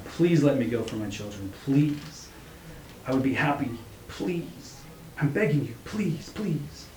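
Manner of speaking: tearful plea, pitch climbing; crying, begging. A narrator's reading. Father begging to go for his children, crying. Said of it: "crying and begging now".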